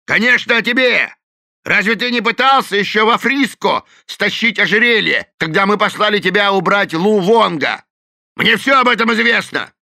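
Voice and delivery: loud, high accusing shout; angry accusation. A narrator's reading. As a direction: hurl the accusation. Gang quarrel, accusing.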